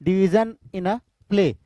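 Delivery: slow, word by word, for notes; slow dictation. Shown as a demonstration. Teacher dictating the definition to students, slow and deliberate. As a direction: spell it out slowly so they can write. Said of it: "major division in a play को हम क्या बोलते हैं?".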